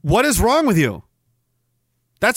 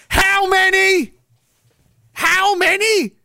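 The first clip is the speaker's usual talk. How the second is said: much higher and slow; incredulous; 11 semitones higher, slower than usual. Real, not acted. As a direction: ask in stunned disbelief. Reacting to huge number.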